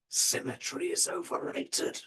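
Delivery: slow, very high mad-professor voice; mad surgeon. Retold or imitated. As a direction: deliver the maxim as a crazed surgeon, slowly. Mad surgeon's maxim, acted.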